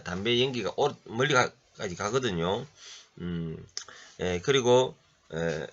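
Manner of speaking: normal talking voice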